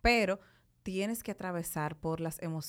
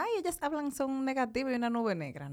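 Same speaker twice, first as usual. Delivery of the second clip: lightly voiced critics, starting high; a hint of mocking complaint, pitched up at first; imitated complainers; 5 semitones higher than usual. Podcast host imitating listeners who call them negative, lightly mocked complaint. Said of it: "no quiero que vengan".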